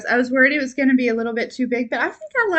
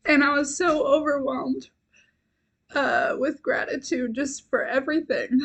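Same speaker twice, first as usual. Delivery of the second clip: tearing up; 2 semitones higher than usual. Real, not acted. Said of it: "I might cry".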